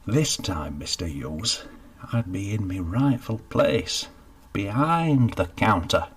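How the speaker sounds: Geoffrey talking the baker into hiring him, with relish. Acted. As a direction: sell the dream, savouring it. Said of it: "commending it with relish".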